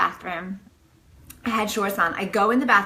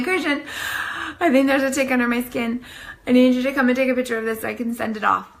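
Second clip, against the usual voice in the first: higher, urgent retold summons; urgent calling out; 3 semitones higher, faster than usual. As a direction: call him over with mild alarm. Calling someone to come, retold.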